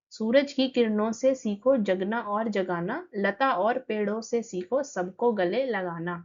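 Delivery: put-on steady sing-song reading of a children's poem; poem recitation. Teacher reciting the poem to the class, measured poem reading. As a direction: recite each line evenly for pupils.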